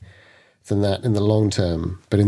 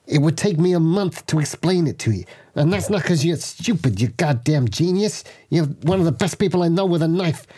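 raised, pleading in-character voice; higher character voice; 5 semitones higher than usual. Acted. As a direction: pitch up and plead with the gang. Knuckles addresses the group in character.

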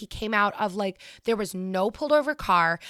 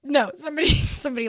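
emphatic; 7 semitones higher, 7 dB louder, faster than usual. Real, not acted. Correcting a misunderstanding emphatically.

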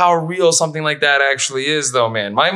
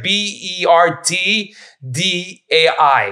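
slow spelling out; 3 semitones higher, much slower than usual. Shown as a demonstration. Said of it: "in birthday would be".

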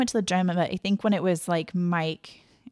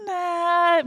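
dismissive nah; 10 semitones higher than usual. Retold or imitated. Shoppers refusing, acted quote.

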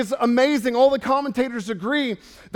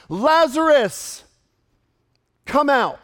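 loud, drawn-out commanding cry; Jesus; 4 semitones higher, 4 dB louder, slower than usual. Acted. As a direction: call out high to summon the dead. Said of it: "cried out with a loud voice".

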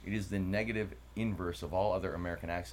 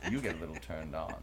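put-on British accent; 2 semitones lower than usual. Host shows co-host his thinking voice, British accent. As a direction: slip into playful British, a little amused. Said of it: "I like to think British sometimes".

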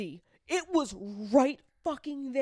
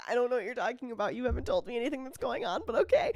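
put-on confused boyfriend; 2 semitones higher, faster than usual. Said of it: "He's like".

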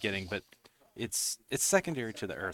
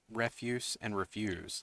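"refuse" first as REF-use, then as re-FUSE; 4 dB quieter, slower than usual. Shown as a demonstration. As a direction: stress shifts from first to second syllable. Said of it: "different emphasis".

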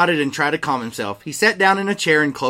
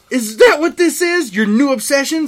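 mock spat accusation; 10 semitones higher, 5 dB louder than usual. Snape spat at Dumbledore.

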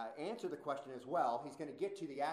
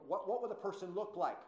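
higher, lightly scoffing question; mocking question; 5 semitones higher than usual. Preacher quotes critics wondering about appearance, mocking. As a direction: ask it with mock curiosity. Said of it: "they mockingly ask that question".

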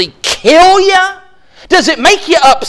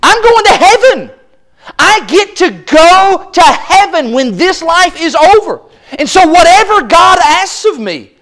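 joyful attitude; 3 semitones higher than usual. Retold or imitated. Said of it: "The attitude that says".

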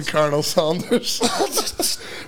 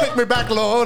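mock possessed voice; 6 semitones higher than usual. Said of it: "you're fully possessed".

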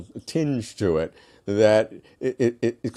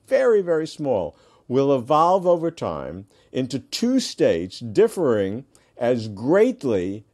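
reading a dense quote slowly; reading aloud haltingly; 4 semitones higher than usual. Real, not acted. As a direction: read it carefully, word by word. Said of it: "I'm gonna read it slowly 'cause it's a little complicated".

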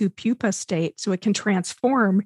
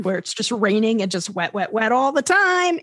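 exaggerated wet. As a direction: pile on the wets. Mocking rainy stereotype.

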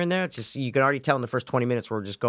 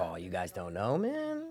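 soft unvoiced whisper; 5 semitones lower, 11 dB quieter, slower than usual. Real, not acted. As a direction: keep it low under the movie. Whispering aside during movie.

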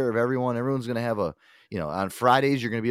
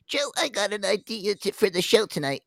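higher, eager employee voice; 11 semitones higher than usual. Retold or imitated. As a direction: pitch up as a keen staffer. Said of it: "report to us".

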